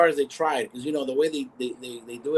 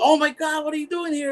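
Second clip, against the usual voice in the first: retold surprise. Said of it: "He said".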